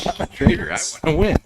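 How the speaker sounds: put-on high, loud, half-whispered kid voice, gleefully owning up; imitating a little kid. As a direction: parrot the kid's cheeky confession with delight.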